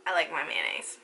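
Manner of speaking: a quick whispered confession to herself; whispered aside. Real, not acted. Telling viewers she'd rather keep mayonnaise, whispered. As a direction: drop to a whisper for the mayo admission. Muttered aside rejecting yogurt swap.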